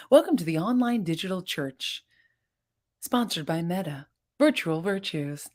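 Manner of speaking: lightly put-on announcer voice; play-announce it like a tongue-in-cheek show intro; mock church announcer.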